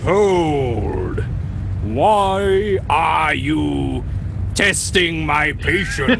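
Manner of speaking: Darth Vader through a fan; slow, theatrical Vader through a fan. Acted. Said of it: "Laurence Olivier trying to do Darth Vader through the back of a fan".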